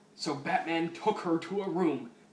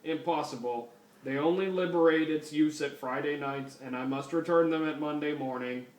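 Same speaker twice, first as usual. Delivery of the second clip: lightly voiced robot cop, even pitch; RoboCop. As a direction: do a bad stiff robot officer. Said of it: "That's the worst fucking RoboCop voice ever".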